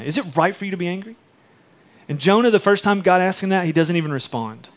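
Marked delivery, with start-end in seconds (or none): 0.0-1.2 faster, lighter read of the question; brisk repeat of the question; quick quoted question. Shown as a demonstration. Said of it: "that's God's question to Jonah".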